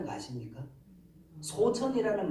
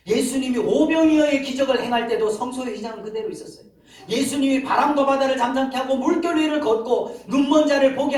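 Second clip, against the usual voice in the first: louder, higher rolling list of miracles; preaching at full force; 5 semitones higher, 6 dB louder than usual. Real, not acted. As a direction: build the miracles up with loud, driving force. (힘주어 몰아치는 설교)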